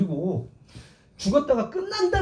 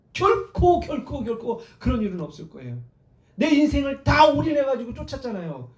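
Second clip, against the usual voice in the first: acted indignant objection, higher-pitched; aggrieved follower demanding an answer; protesting; 5 semitones higher than usual. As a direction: argue back in disbelief. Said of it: "항변한 거예요".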